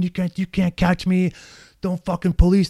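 high-pitched, stretched imitation of a screamer; mock screaming. Man taunting the cops chasing him, mock screaming. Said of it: "He's screaming".

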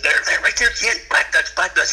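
high, urgent heads-up to a buddy; excited. Retold or imitated. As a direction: call out the sighting in a rush of excitement. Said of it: "we was all excited for Kent".

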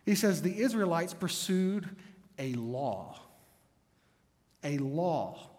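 a law, then a law repeated after a long pause; stress on law. Shown as a demonstration. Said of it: "He puts the emphasis on a different word".

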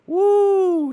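a high, loud whoop; excited woo. Real, not acted. Cheering a rapper's diss line, loud high whoop. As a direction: whoop it like a hype man.

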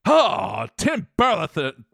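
lightly hammed-up rubber comedian voice; mock over-the-top comic actor; Jim Carrey. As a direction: exclaim it high, stretching the opening. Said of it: "can we get some Jim Carrey?".

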